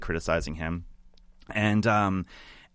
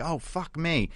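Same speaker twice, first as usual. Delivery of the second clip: mock crude exclamation; 8 semitones higher, slower than usual. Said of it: "she's like".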